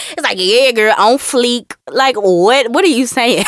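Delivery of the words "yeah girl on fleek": mock try-hard white person talking black; exaggerated put-on slang; overdone imitation slang. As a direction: force the slang, above and beyond natural. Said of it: "they're going extra and above and beyond".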